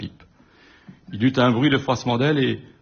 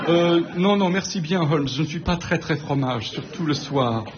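Watson gêné; 4 semitones higher than usual. Acted. Watson refuse de lécher le corbeau.

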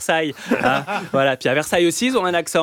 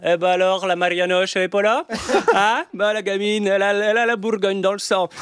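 higher, rolled-R Burgundy voice; Burgundy accent; 5 semitones higher than usual. Retold or imitated. La famille bourguignonne accueille la gamine, accent du terroir. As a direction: roll the R like a country aunt. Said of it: "je roulais encore les R".

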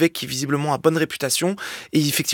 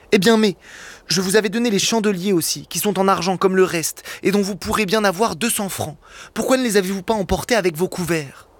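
voix d'évêque un peu plus aiguë, enjouée; évêque bienveillant; 2 semitones higher than usual. Acted. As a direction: accueille le voleur comme un ami. Évêque accueille le voleur. (l'évêque s'adresse à Jean Valjean, légèrement plus aigu)

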